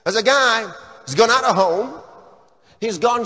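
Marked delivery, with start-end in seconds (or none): none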